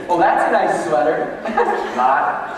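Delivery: loud, laughing mock praise then flat put-down; sarcastic compliment. Teasing Melissa about her sweater, laughing sarcasm. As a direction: snigger at the sweater.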